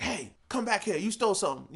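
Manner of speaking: mock angry clerk. Store worker chasing a thief, mock angry. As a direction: snap it like a guard. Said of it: "they're angry".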